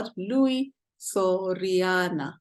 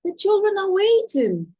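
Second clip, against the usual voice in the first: high, pleading voice; Louis begging the bandit on the path, high pleading; 11 semitones higher, 5 dB louder than usual. Acted. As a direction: beg to be let through, pitched high.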